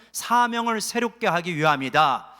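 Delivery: preacher leading a responsive repeat; call to repeat. Shown as a demonstration. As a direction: say it out loud for the flock to echo. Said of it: "한번 따라해서".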